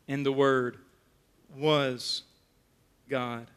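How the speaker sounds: dropping to a hushed, slow reveal; hushed emphasis. Real, not acted. Preacher hushing the congregation for the key line, soft and slow. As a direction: let it land softly, word by word.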